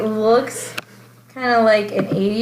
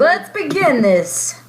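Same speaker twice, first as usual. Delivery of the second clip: excited; 6 semitones higher, slower than usual. Pretend. Echoing the opening cheer.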